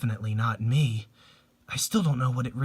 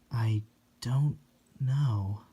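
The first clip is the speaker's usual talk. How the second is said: hushed reply; 3 dB quieter, much slower than usual. Acted. Quiet grieving reply.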